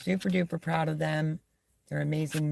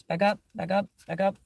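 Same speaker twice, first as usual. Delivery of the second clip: firm command; 4 semitones higher, 3 dB louder, faster than usual. Real, not acted. Commanding the dog back.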